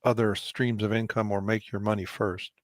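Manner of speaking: talking with a mouth full; speaking through food. Real, not acted. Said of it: "Sorry, I'm talking with my mouth full".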